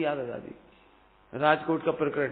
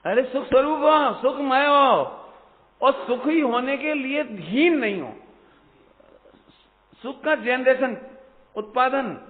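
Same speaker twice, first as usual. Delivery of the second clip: higher, louder, ringing sermon voice; full-force preaching; 8 semitones higher, 7 dB louder than usual. Acted. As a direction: thunder it to the congregation. (पूरे जोश से प्रवचन)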